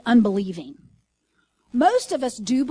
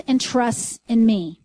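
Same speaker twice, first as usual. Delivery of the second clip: Jesus's voice; 7 dB louder, slower than usual. Retold or imitated. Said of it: "here's what it says in the voice".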